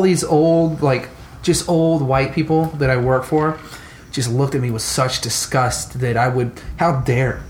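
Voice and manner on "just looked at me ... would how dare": burping. Real, not acted. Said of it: "excuse me, I'm burping again".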